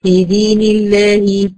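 في دين الله slow and stretched, with a thin, light lam in الله; thin lam demo. Shown as a demonstration. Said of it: "مرققة".

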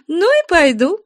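very high giggle then retort; laughing. Acted. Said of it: "смеясь".

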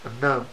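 النام as a mispronounced اللام; L turned into N. Shown as a demonstration. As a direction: say النام with a nun replacing the lam. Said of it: "ينطق اللام نونا".

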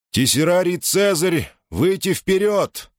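barked order. Acted. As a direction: call him out like a centurion. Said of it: "приказал Гадитик".

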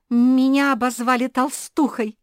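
high, loud squeal; shriek. Acted. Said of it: "взвизгнула Зефирка".

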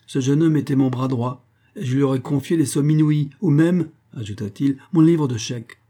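le docteur, plus fort et plus haut, outré; éclater d'indignation; docteur indigné. Acted. Le docteur s'emporte. (le docteur renvoie la servante, indigné et plus fort)

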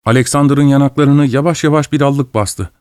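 usual speaking voice

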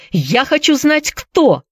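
high-pitched, insistent demand. A narrator's reading. Priscilla presses Gibbs for a name, demanding.

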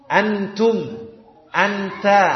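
"Antum, anta" with an airy puff after each t; careful Arabic t with hams; Arabic hissed T. Shown as a demonstration. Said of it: "ada hamesnya".

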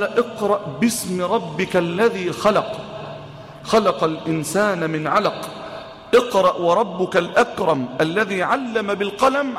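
slow, solemn Quran recitation. Acted. Preacher recites the first verses, slow and solemn. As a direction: recite each phrase slowly and reverently.

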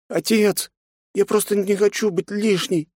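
put-on high girl's voice, near tears; a little girl trying not to cry; hurt young girl. A narrator's reading. Nastya tells her father she won't be unwanted, hurt.

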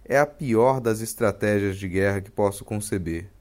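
low, measured reading voice; essay reading. Acted. Host reads an old blog text aloud, measured reading voice.

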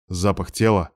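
ordinary delivery

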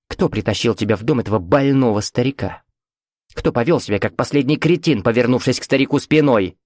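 lightly voiced scornful mother; mildly mocking, domineering lecture; caustic mother. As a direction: press the accusation with cold certainty. Mother's voice argues in head.

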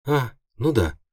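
high, sheepish squeak; imp squeak. A narrator's reading. Imp realising her mistake, high squeak. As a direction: squeak it like an embarrassed tiny demon. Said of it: "пискнула импа".

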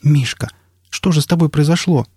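a woman's startled, worried question; alarmed woman. A narrator's reading. Настя встречает больного, встревожена.

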